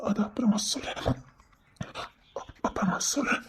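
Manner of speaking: ashamed whisper; barely voiced, hanging his head. Ashamed man avoids sister. (வெட்கத்தில் கிசுகிசுப்பு)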